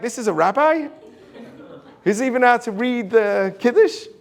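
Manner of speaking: mock disbelief, rising into a question; incredulous congregant. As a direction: imitate a baffled listener questioning him. Congregants doubting the fumbling rabbi.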